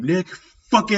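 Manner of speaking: yelling. Retold or imitated. Quoting the film's ending, mock yelling. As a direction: bellow the name, stretching the last word out.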